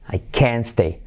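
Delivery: "can't" emphasized with a fall, T unheard; stress on CAN'T. Shown as a demonstration. Teacher repeating the negative for students, "can't" stressed. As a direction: press on "can't", dropping its T. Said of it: "enfatizar toda la palabra".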